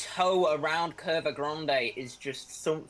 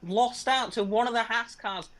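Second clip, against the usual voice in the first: raised, animated race commentary; excited play-by-play; 4 semitones higher than usual. Real, not acted. Commentator following Moon after the crash, excited play-by-play. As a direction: keep the pitch up as the incident unfolds.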